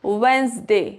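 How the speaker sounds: "Wednesday" with the D left silent. Shown as a demonstration. Teacher showing learners the silent D rule, "Wednesday" without D. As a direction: say "Wednesday" as "Wensday", no D. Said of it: "इसको pronounce नहीं करेंगे".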